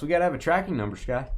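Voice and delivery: talking through hiccups; catching a hiccup mid-sentence. Real, not acted. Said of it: "I got the hiccups".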